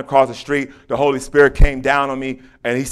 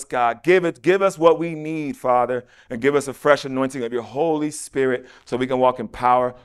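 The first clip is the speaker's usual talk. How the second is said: earnest, repetitive prayer cadence; closing prayer. Real, not acted. Preacher closing out in prayer for the listeners, earnest praying. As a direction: plead steadily with God, softening toward the close.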